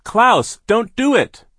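high pleading shout; crying out. A narrator's reading. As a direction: beg him to stop. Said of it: "Violet cried".

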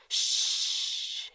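breathy whispered shh; calm the child in a whisper; whispered hush. Acted. Kira hushing the frightened child, whispered. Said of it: "Kira whispered".

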